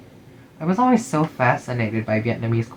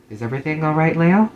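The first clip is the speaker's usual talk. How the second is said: calling out; 4 semitones higher, 3 dB louder, faster than usual. Acted. Teacher calling out concerned.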